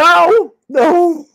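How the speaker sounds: loud, high repeated protests, easing down; emphatic loud no. Acted. Coach correcting a student's conclusion, loud and high. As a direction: cut off the wrong idea, high and loud. Rejecting the misreading.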